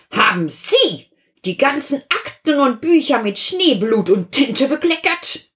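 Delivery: lawyer questioning. Acted. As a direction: quiz the secretary suspiciously.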